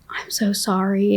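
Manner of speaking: soft, slow retold apology; tearful apology. Apologizing to the angry wife, softly tearful. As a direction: say sorry softly, drawn out, mildly tearful. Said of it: "And I'm, like, crying".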